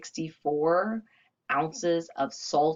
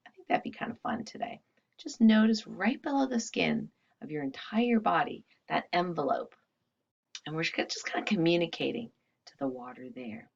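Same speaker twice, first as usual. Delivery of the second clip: guided meditation. Acted. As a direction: gently guide attention inward. Leads a body-awareness meditation.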